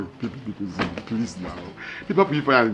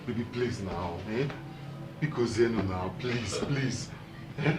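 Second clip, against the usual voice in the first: soft, lower, begging voice; pleading; 4 semitones lower, 5 dB quieter than usual. Acted. Husband softly begging his wife to forgive him. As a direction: beg her quietly to forgive.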